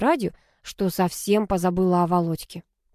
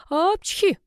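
sharp sneeze, much higher; 11 semitones higher than usual. A narrator's reading. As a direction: sneeze mid-sentence. Character sneezes. (чихнуть)

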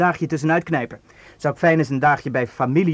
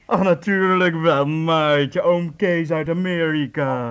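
fake uncle voice; much slower than usual. Kasper posing as uncle to Maartje on the phone, slow put-on voice. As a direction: drag out each word like a jovial old uncle. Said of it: "ik zeg dat ik een oom ben".

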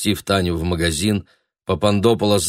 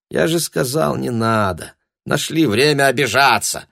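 raised, irritated outburst; sudden shouting; 6 semitones higher than usual. A narrator's reading. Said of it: "вдруг закричал он".

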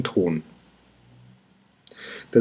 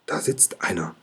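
soft unvoiced whisper; 4 semitones lower, 7 dB quieter than usual. A narrator's reading. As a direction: hush it so the figure won't hear. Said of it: "flüstert Kokosnuss".

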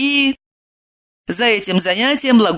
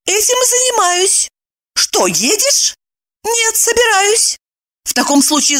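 higher, animated women's voices; chatty girlfriends on the phone; lively women friends; 9 semitones higher than usual. Acted. Two friends on the phone, high and lively.

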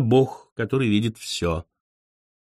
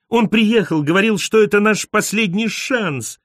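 put-on higher, pleading girlish voice; girl's excuse; 8 semitones higher than usual. A narrator's reading. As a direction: justify yourself in a high whine. Fräulein excuses herself in quote. (высокий оправдывающийся женский голос)

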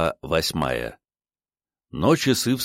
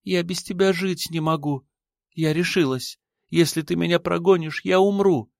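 put-on higher young woman's voice, desperate; Ada, pleading; 11 semitones higher than usual. A narrator's reading. Ada begs her lover not to send her away, higher and desperate. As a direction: plead as if life depends on it.

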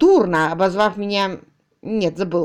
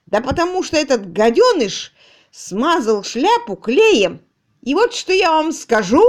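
furious rant; 6 semitones higher, 6 dB louder than usual. Acted. Tutor ranting about the glued hat.

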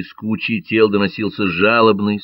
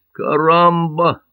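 slow, high drawn-out Caramba; a wounded man calls from under the bodies, slow and high; Catalan's cry; 9 semitones higher, 5 dB louder, much slower than usual. A narrator's reading. Раненый каталонец из-под тел, протяжно. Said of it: "донеслось из кучи мёртвых тел".

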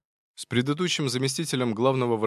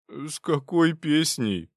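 slow, higher groaning question; moaned; 6 semitones higher, much slower than usual. Acted. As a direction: whine in despair. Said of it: "простонал Павел".

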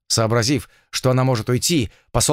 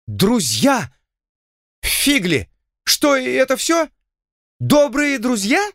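much higher, whining moan; moaning lord; 12 semitones higher, slower than usual. A narrator's reading. Spurned lord moans to the heroine in a much higher whine. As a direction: groan in despair and disappointment. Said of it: "простонал он".

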